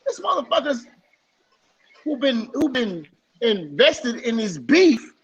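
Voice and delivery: incredulous high-pitched comeback, dragged out for emphasis; indignant retort. Retold or imitated. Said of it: "I'm like".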